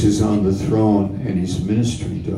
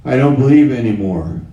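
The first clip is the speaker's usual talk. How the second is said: doubter's voice; 2 semitones higher, 4 dB louder, faster than usual. Acted. Voicing a doubter in sermon.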